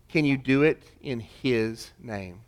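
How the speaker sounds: the same question again, slowed and pressed home. Shown as a demonstration. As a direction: let each word land slowly.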